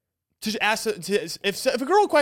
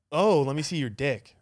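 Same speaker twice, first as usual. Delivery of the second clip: flirty ask; 6 semitones lower than usual. Shown as a demonstration. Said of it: "if she said it like that".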